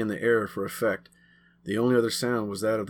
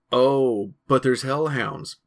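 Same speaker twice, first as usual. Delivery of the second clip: louder, slow fake surprise; mock shock; 4 semitones higher, 5 dB louder, slower than usual. Billy mocking Greg's hellhound, hammed-up shock. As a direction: act shocked to needle him. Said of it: "Billy acted shocked".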